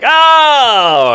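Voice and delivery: a high deflated oh; mock disappointed wife. Comic telling of wife's letdown, high oh. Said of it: "she was like".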